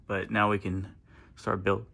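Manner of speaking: speaking through hiccups; words broken by a hiccup. Real, not acted. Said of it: "got the hiccups".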